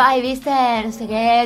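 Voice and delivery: lightly put-on posh snob; a hint of talking with a potato in the mouth. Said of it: "como que hablaban con una papa en la boca".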